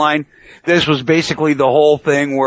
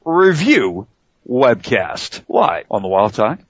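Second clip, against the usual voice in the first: radio show intro; 2 semitones higher than usual. Shown as a demonstration. Host shows guest how to open, radio announcer intro. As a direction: demonstrate a proper host's welcome, pitched up at the top. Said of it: "the way you do it".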